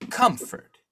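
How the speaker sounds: incredulous echo. Acted. Editor doubts the comfort claim.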